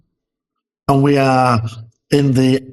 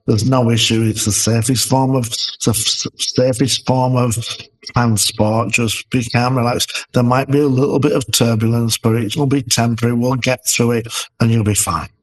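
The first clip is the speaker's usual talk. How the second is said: lightly soothing a nervous passenger; steady and reassuring, holding her hand; calming reassurance; 2 semitones lower than usual. Retold or imitated. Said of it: "With calming, calming tone".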